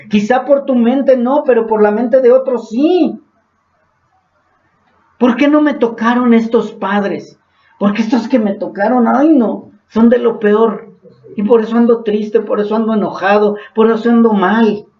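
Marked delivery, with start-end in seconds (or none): 5.2-14.8 put-on whiny resentful child. Voices resentful child about parents.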